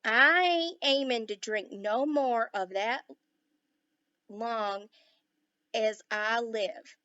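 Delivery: slow, loud Texas cowboy shout. A narrator's reading. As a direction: bellow it slowly in a Texas drawl. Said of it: "with his strong Texas accent".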